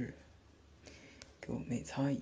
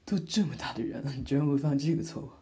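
louder teasing disbelief; mock disbelief; 4 dB louder than usual. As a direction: tease her for tripping. Teasing her clumsy fall.

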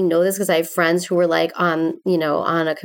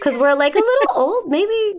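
laughing; 12 semitones higher than usual. Real, not acted. Joking about being old.

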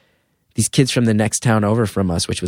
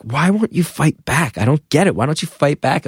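higher, exasperated mock-dad questioning; frustrated dad; 4 semitones higher than usual. Dad demanding answers from his bullied son, frustrated. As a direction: press him, baffled and frustrated. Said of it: "he would get frustrated sometimes".

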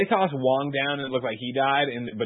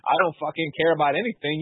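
carefree Strange; 5 semitones higher, 4 dB louder than usual. Retold or imitated. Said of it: "Doc Strange is like".

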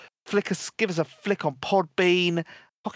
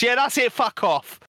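muttered dismissal; 6 semitones higher than usual. Retold or imitated. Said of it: "When the door shuts".

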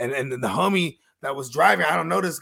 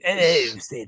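deep killer voice. Retold or imitated. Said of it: "like, a British accent".

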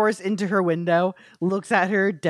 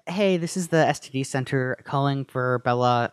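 mock clinic caller; 5 semitones lower than usual.

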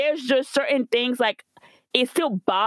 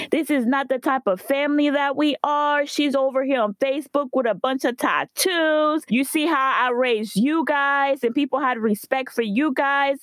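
higher-pitched indignant scolding, imitated; mother's lecture; 4 semitones higher than usual. Daughter retelling mom's outrage over cousin's tattoos, mock lecturing. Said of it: "goes into this whole lecture".

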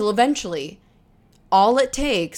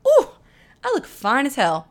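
higher, playful preening; sassy self-admiration; 7 semitones higher, 4 dB louder than usual. Pretend. Dressed up for dinner with friends, playful higher preening. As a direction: show off to yourself in the mirror.

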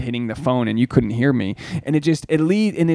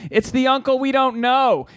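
put-on high kid voice, innocent; second niece explaining who he is, high child voice; 9 semitones higher than usual. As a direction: say it like a little girl. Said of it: "the other niece goes".

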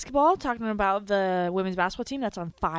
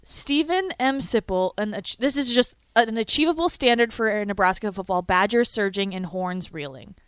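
dramatic monologue. Acted. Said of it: "here's her dramatic monologue".

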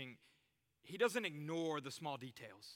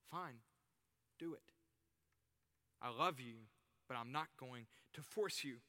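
gentle release; 4 semitones lower, 4 dB quieter than usual. Acted. God voiced giving space.

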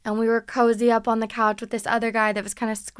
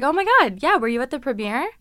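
eager gush; 3 semitones higher, 6 dB louder than usual. Retold or imitated. Friend gushing at the actor.

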